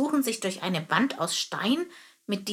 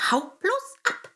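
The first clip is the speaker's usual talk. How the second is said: high, slow metallic voice of a hidden termite; 11 semitones higher, 3 dB louder than usual. Acted. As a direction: bark it out slowly like a tin soldier. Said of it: "eine metallische Stimme".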